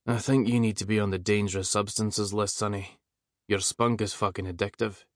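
lightly voiced lazy Scottish drawl; a hint of a lazy Scottish drawl; deep lazy drawl. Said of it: "in a deep, lazy drawl".

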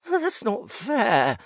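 high, slow, whining ghost voice; high rogue ghost wail. Acted. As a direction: drag it out like a broken spirit. Rogue ghost ranting at narrator.

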